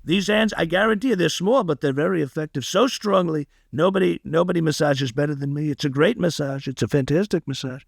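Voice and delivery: light Trump voice, boasting; a hint of a bragging Trump masseuse; Donald Trump impression. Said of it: "If I made Trump a masseuse".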